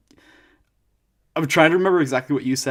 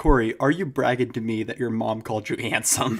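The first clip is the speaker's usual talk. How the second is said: usual speaking voice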